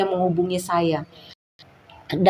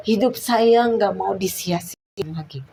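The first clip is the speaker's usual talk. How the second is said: whispered vow. Retold or imitated. Retold vow to God.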